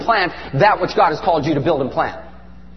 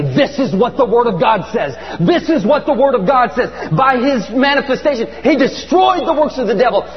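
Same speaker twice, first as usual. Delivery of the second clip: forceful declaring; 3 semitones higher than usual. Retold or imitated. Re-enacts marching, declaring scripture.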